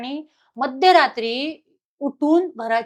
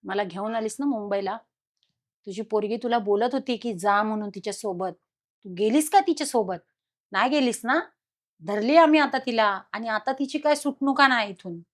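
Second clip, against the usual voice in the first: lightly lowered, softer voice of a man speaking through her; possessed male voice; 4 dB quieter than usual. Retold or imitated. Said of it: "आणि तो आवाज पुरुषाचा".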